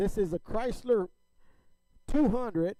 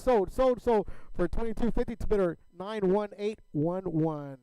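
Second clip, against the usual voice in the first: loud sold call; 4 dB louder than usual. Acted. Auctioneer closing the sale.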